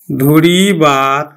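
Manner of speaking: ধরিবার very slow, ধো-রি-বার; drawn out by syllable. Shown as a demonstration. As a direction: stretch each syllable of ধরিবার. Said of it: "ধরিবার থেকে আমার চলিত". (ধীরে টেনে ধরিবার উচ্চারণ)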